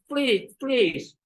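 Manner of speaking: high pleading sister; upper jaw forward. Acted. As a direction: beg with the top jaw pushed out. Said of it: "the upper jaw is forward".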